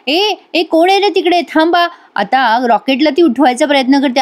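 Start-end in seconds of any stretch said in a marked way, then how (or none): 0.1-1.9 calling out higher-pitched, like spotting a thief; mock yell after a fleeing thief; retold alarmed shout. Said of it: "मोठ्याने आरडाओरडा करायला लागते". (चोराला पाहून उंच आवाजात हाक)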